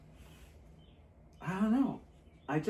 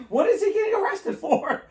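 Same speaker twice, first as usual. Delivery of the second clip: high, laughing alarmed question; surprised; 4 dB louder than usual. Retold or imitated. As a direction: ask it in shocked amusement. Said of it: "I'm like".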